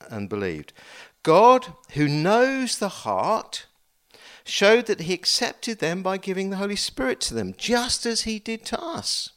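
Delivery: scripture reading. Acted. Preacher reads Peter's speech to the congregation, declaiming. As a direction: proclaim the apostle's words to the room.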